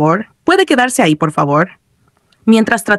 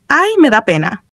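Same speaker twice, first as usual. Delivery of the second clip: higher-pitched tender pity; softer, pitying; 4 semitones higher than usual. A narrator's reading. Player pities the upside-down character, softer voice. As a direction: say it tenderly, feeling sorry for it. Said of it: "dijo con voz más suave".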